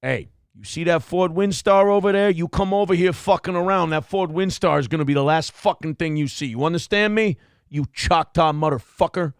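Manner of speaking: a light mock mobster menace; mafia threat. Host mocks a man's minivan threat, lightly voiced mafia menace. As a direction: lean in like a mobster making a threat. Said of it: "like a mafia threat".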